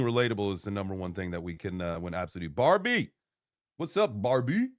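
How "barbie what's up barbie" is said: deeper voice. Pretend. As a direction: drop the voice low for Barbie. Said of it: "you saying Barbie in a deeper voice".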